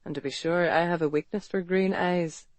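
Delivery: lightly done Irish brogue, teasing; a hint of Irish charm, flirting; light teasing Irish lilt. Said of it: "Irish brogue".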